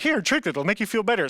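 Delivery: high-pitched imitation of a mother; coaxing mom. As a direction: lightly voice a mom offering a remedy. Mom coaxing him, retold.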